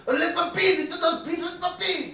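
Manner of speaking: put-on very high playful Latino accent; mock Latino accent. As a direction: sing it at the drive-thru in a mock Latino accent. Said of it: "and I'm like".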